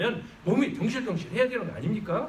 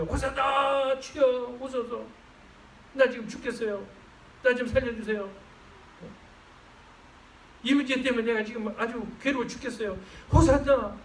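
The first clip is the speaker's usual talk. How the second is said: higher pleading prayer call; pleading cry; 6 semitones higher than usual. Shown as a demonstration. Preacher models a desperate home prayer, pleading. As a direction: beg the Lord for rescue. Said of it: "집에서도 외쳐봐요".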